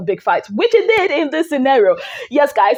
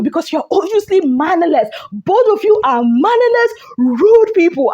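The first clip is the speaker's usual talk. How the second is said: with full chest; 4 semitones higher than usual. Real, not acted. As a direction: say it with your full chest, no apology. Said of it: "I said it with my full chest".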